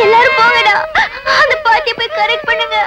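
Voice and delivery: tearful wailing call to the others; crying shout to send the gang off; fake crying. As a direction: wail it out as if in tears. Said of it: "அழுதுட்டு இருக்கு".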